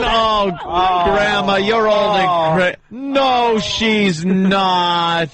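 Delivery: high, exaggerated caller impression; mocking high-pitched girl voice; imitating her voice. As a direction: mimic the granddaughter in a high put-on voice. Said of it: "I gotta get that voice down".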